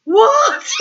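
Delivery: high squeaky mock-baffled what; surprised what. Guitarist staring at her mid-hug, squeaking a baffled what. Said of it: "looking at me like".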